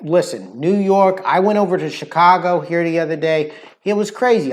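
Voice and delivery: Brooklyn accent, lively; punchy New York accent. Shown as a demonstration. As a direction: talk like a Brooklyn local. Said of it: "So the Brooklyn accent, the New York accent".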